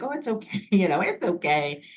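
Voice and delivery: lightly acted consoling, starting high with a little laugh; retold reassurance. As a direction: imitate a friend soothing someone upset. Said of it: "crying. And she was like".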